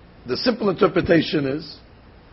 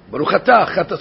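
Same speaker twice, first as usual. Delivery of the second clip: said fast, slurred; 3 semitones lower than usual. Shown as a demonstration. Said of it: "if you say it fast".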